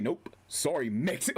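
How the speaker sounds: imitated quote leaning on "Mexi-"; heavy emphasis. Streamer repeating a rage-quitter's line, emphatic. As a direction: mimic him stressing "Mexi-". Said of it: "he said it with so much emphasis".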